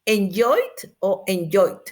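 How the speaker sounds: each "enjoyed" spaced out, last consonant sounded; alternative endings demo. Shown as a demonstration. Teacher gives students options to choose from, slow careful "enjoyed". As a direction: slowly offer two endings for "enjoyed". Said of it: "ustedes me van a escribir".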